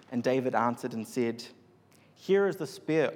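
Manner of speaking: measured Bible reading with pauses between phrases; scripture reading. A narrator's reading. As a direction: read the passage out solemnly, phrase by phrase. Reads the Bible passage aloud.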